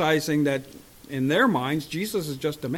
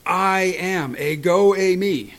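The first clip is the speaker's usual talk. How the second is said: loud, higher commanding declaration; Jesus answers the soldiers, forceful and loud; 3 semitones higher, 6 dB louder, slower than usual. Retold or imitated. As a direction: say it with force, no wimpy voice. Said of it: "Jesus' answer was forceful".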